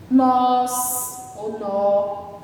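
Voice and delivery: each word stretched out slowly; stretched, slow classroom examples. Shown as a demonstration. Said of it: "Por exemplo".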